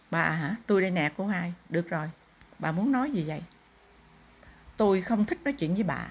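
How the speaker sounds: a spirit asks what the family wants; possessing spirit. Acted. Possessed medium speaks as a spirit.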